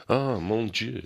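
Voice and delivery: put-on a light French accent for a drunk's "oh, mon Dieu"; lightly voiced French drunk. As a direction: imitate a tipsy Parisian exclaiming. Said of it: "Drunk with a French accent".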